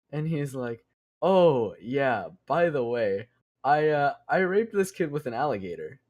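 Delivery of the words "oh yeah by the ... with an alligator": offhand; casual confession. Retold or imitated. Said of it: "take a step back. What?".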